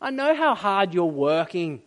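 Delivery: loving, pleading reassurance; tender father. Acted. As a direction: soothe an upset son, voice lifted. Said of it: "Do you hear the tenderness".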